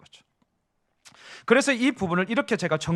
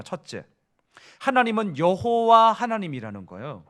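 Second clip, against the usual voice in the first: ordinary delivery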